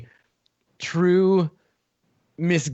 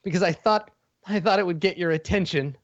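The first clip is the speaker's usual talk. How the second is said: tearful little villain; 4 semitones higher than usual. Acted. Furry villain pleads with Eugene, close to tears. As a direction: beg him to understand, eyes full of tears.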